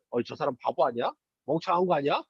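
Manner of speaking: storyteller voicing the crowd jeering at Jesus, mocking; mocking sneer. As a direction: scoff at him like he's a fool. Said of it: "라면서 막 비웃었어요".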